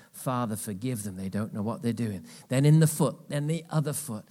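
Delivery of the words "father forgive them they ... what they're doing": quiet prayer. Retold or imitated. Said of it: "he said it again".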